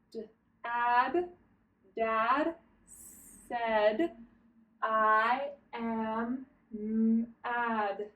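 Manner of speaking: "D-, ad" split, then blended slowly into "Dad"; very slow reading, stretching "mad"; sounding out. Shown as a demonstration. Teacher nears the end of the lesson, slowly sounding out "Dad" and "mad". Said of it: "sounding out those words".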